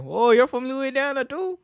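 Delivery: high, delighted fake surprise; mock surprise. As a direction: act amazed at a shared home state. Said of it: "It's like".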